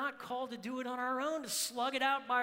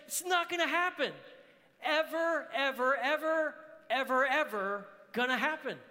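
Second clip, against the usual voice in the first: high, loud declaration hammering each "ever"; emphatic shout; 5 semitones higher, 5 dB louder than usual. Acted. Preacher voicing God's promise to the church, emphatic shout. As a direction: shout it as an absolute promise, word by word.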